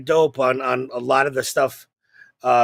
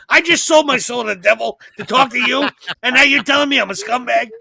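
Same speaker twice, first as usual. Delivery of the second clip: indignant whine; 7 semitones higher, 3 dB louder than usual. Pretend. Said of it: "And I'm like".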